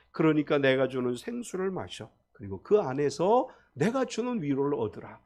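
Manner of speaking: a hint of God speaking tenderly to the hurting; gentle consolation.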